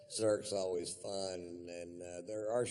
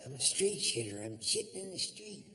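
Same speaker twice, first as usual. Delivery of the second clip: higher, eerie woman's wail; ghostly woman voice; 8 semitones higher than usual. Pretend. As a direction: moan it like a ghost.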